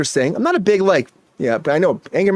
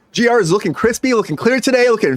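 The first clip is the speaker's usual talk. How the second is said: hype; 6 semitones higher than usual. Acted. Hyping the guest.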